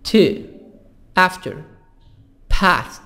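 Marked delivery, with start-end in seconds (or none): 2.5-3.0 PAST with the American short front A; American-accented 'past'; American pronunciation. Shown as a demonstration. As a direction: say PAST with the A of 'cat', American style. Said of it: "الأمريكان".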